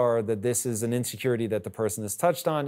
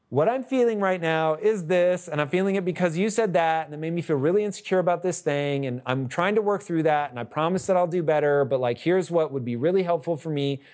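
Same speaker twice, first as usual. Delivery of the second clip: lightly hammed-up therapy talk, pitched higher; therapist-speak; 5 semitones higher than usual. Spouse working through insecurity with partner, mock therapist-speak. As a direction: voice an earnest couple over-explaining feelings, lightly put on. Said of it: "we sound like therapists".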